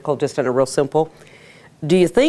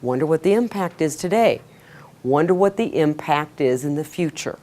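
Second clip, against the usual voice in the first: musing to yourself. Shown as a demonstration. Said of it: "push back and go".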